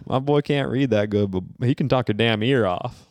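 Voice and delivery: put-on Southern parent voice; lightly hammed Southern accent. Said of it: "in my Southern accent".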